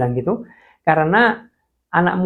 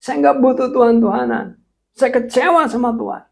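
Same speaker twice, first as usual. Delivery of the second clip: defiant shout; 10 semitones higher than usual. Retold or imitated. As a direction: snap back in stubborn anger. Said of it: "Saya bilang". (bentakan keras kepada teman)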